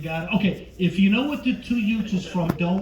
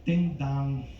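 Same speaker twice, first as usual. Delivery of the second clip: a light De Niro growl at the door; lightly voiced De Niro selling door to door; hint of a mobster salesman at the doorstep; 10 dB quieter than usual. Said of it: "my impression of Robert De Niro as a door-to-door Vagisil salesman".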